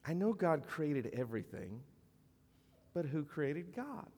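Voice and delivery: lightly imitated little girl, rising into the question; a hint of a child's sweet wondering; sweet young girl. Young girl asking her pastor about God, lightly imitated sweet voice. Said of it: "it was very sweet".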